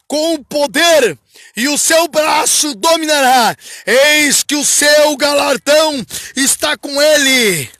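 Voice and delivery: slow, forceful scripture proclamation; declamação bíblica. Acted. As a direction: proclaim each phrase strongly, with drawn-out words. Declama o versículo dez. (leitura bíblica lenta e vigorosa)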